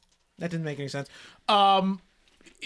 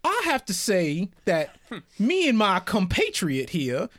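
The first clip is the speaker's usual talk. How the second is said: put-on Southern accent; 3 semitones lower than usual. Player to the prisoner, Southern accent getting thicker. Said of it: "Getting more southern as we go".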